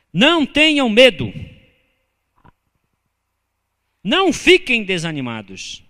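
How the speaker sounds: loud, high exhortation; preaching exhortation. Real, not acted. Pastor urging the congregation not to fear, loud. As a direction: urge the church not to fear.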